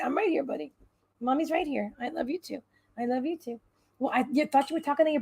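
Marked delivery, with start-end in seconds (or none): 0.0-3.6 soft, hushed reassurance to a pet; gently calm the little one down. Real, not acted. Comforting her pet cat.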